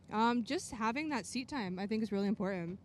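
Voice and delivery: talking through a mouthful of food; chewing while answering; mouth full. Real, not acted. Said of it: "Sorry, I have food in my mouth".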